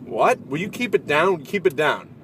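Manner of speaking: mild mock scolding at a noisy stranger; bothered villager. Villager telling the horn blower to keep it down, mildly irritated. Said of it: "a guy shows up and he goes".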